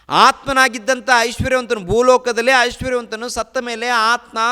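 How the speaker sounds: high, loud lament from the pulpit; fiery preaching. Acted. Preacher describing the rich man's torment, loud and high. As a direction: cry it out to stir the hall.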